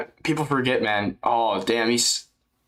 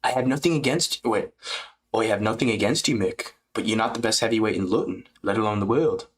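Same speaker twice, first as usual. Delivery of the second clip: put-on British fighter voice; lightly done British impression; mock British, politely dismissive; Aspinall.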